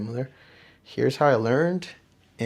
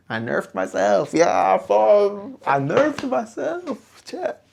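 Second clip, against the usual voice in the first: rising, louder, drawn-out wail; dismayed outburst; 9 semitones higher, 7 dB louder, much slower than usual. Real, not acted. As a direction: cry out in disbelief at the loss. Dismay at reset rank.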